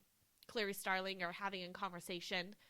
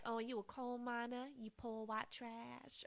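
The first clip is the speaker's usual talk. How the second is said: soft, drawn-out mock Southern accent; Anthony Hopkins, mocking Southern accent; 3 semitones higher, 5 dB quieter than usual. Imitating the actor mocking her West Virginia accent, soft Southern drawl. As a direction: imitate a sneer at a Southern accent, slowing toward the end. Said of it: "Anthony Hopkins mocks her Southern accent".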